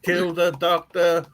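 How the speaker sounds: slow robotic chant. Pretend. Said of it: "beat on your chest and go".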